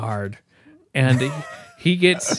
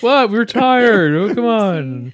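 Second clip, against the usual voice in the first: loud, high defensive plea; pleading, raised-voice comeback; mock protest; 8 semitones higher, 6 dB louder than usual. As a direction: argue back in playful exasperation. Defends himself to absent friend.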